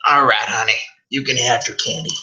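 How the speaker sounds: high, sugary crone; condescending old mother. Acted. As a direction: coo it like a patronizing hag. Mother placating son.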